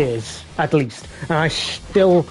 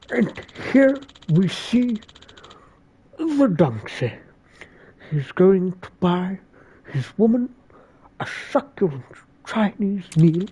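nature documentary narrator; 2 semitones higher than usual. Acted. Streamer narrates himself as a donkey in a hushed documentary voice. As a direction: narrate it like a wildlife film.

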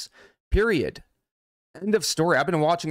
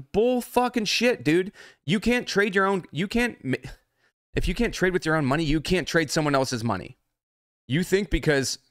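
pitched up, heated rant about trading funds; getting angry; 5 semitones higher than usual. Real, not acted. Streamer ranting to viewers about funded accounts, angry and heated. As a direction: let the anger boil over on bull fucking shit. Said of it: "sorry, I'm getting angry right now".

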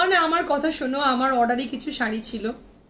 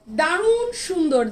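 slow and stretched, a bit louder; drawn-out praise; 3 semitones higher, 3 dB louder, much slower than usual. Real, not acted. Seller praising the dupatta to viewers, slow and emphatic. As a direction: savour the compliment. Seller admires dress on live.

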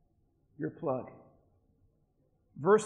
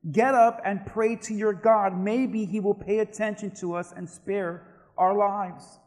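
raised opening, easing off after it; narrated shout; 3 semitones higher, 5 dB louder, slower than usual. Acted. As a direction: urge him up as the shouting captain. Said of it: "he shouted".

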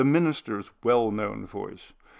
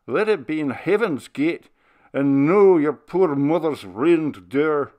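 tender; 5 semitones higher, 8 dB louder than usual. Acted. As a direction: still loud, higher, but gentler and pleading old minister. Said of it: "the loud tones of his voice sank into tenderness".

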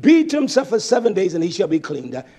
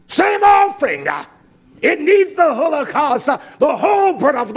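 laughing; 6 semitones higher, 4 dB louder than usual. Real, not acted. Laughing at burnt offering point.

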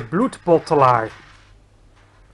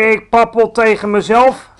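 louder, higher defensive answer; high-pitched protest; 5 semitones higher, 9 dB louder than usual. A narrator's reading. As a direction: answer the bully in a raised, higher voice. Frightened giant answers bullying giant.

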